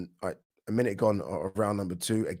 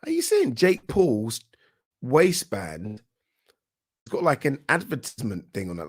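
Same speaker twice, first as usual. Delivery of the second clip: surprised; 3 semitones higher, 4 dB louder than usual. Real, not acted. Spots ad on waistband, amazed.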